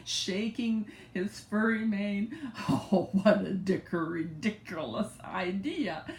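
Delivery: a hint of a scornful lion. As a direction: sneer at the tiny mouse. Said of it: "he said scornfully".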